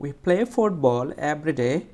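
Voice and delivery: slow sentence, "football" weighted; stress on "football". Shown as a demonstration. Teacher showing how to say it, "football" stressed. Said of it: "এটাকে একটু জোরে বলবো".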